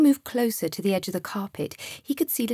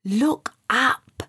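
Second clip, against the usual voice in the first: cheerful; 3 semitones higher than usual. Acted. Guide cheering up the scared boy, cheerful. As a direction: lift the boy's mood. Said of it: "said Sam cheerfully".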